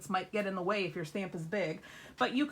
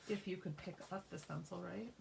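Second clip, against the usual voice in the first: talking around a pen cap; muffled by a pen cap in the mouth; 3 semitones lower than usual. Real, not acted. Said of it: "I have the pen cap in my mouth".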